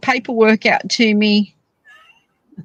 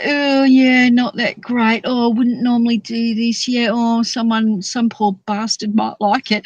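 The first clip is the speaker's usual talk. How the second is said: humble self-deprecation. Retold or imitated. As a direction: play down your own work, mildly. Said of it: "she's so humble".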